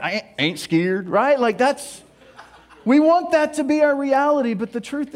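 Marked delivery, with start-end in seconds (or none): 0.0-1.1 mild Southern ain't scared, said slowly; Southern drawl. Shown as a demonstration. Showing how the sticker rolls four words into three, Southern drawl. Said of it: "Southernize it".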